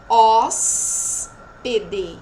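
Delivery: OS, P, D slow, with a long S, then a break; sounds heard. Shown as a demonstration. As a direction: stretch OS loudly, then separate P, D. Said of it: "Eu escuto só". (OS, P, D devagar, alongando o S)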